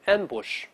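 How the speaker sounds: "ambush" said slowly, stress on am-; clear model reading. Shown as a demonstration. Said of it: "我们先读一下埋伏这个词". (示范朗读ambush，重音在前)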